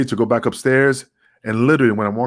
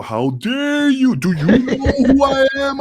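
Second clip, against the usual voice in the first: high, slow, mock-indignant voice through a laugh; pompous Dutch Mantel; 14 semitones higher, slower than usual. Mocking the booker's outrage, high and slow through laughter. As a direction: lampoon a puffed-up booker, dragging it out. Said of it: "you know, the typical".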